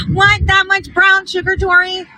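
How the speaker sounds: high, incredulous squeal at the order; mock-appalled gasp of a question; mock surprise. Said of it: "You're gonna be like".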